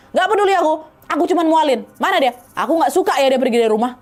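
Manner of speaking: half-acted shouting, pushing hard; mild mock yelling. Neighbour snapping at Mama about Alin, mild mock yell. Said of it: "Masih teriak-teriak".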